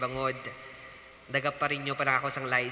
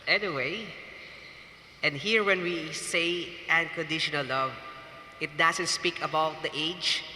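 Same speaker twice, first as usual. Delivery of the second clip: preaching; 2 semitones higher than usual. Acted. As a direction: preach it to the congregation, measured and solemn. Wedding homily resumes.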